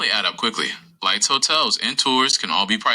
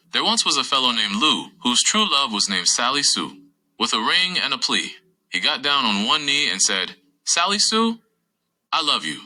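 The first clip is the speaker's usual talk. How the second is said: bouncy limerick lilt. Acted. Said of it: "close this episode out with doing a limerick".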